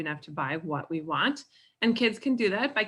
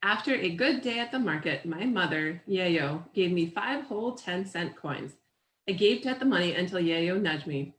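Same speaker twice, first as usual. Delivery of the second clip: measured picture-book read-aloud; story narration. A narrator's reading. Reader shares a picture book with children, story narration.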